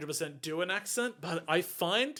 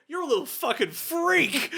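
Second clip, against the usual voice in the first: mock confrontation; 7 semitones higher, 4 dB louder than usual. Acts out Letitia confronting Poirot.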